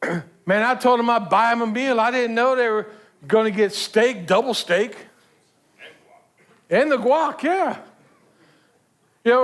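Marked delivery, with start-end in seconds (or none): 0.0-7.8 mock-indignant grumbling, rising at the end; mildly put-on grievance; acted upset. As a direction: complain like someone who feels overcharged. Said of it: "Then you get upset".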